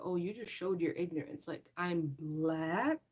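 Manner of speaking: slow, spelled-out sarcastic explanation; patronizing slow lecture; mock lecturing. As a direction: explain it slowly like to a child. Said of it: "and I'm like".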